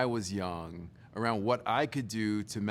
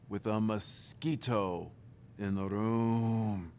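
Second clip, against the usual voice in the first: imitated father giving a riddle, slowing down; dad's wisdom. Father delivering his riddle.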